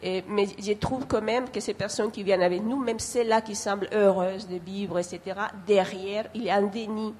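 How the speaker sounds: non-native speaker with a foreign accent in French. Real, not acted. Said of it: "mon français ne peut pas être, très fin".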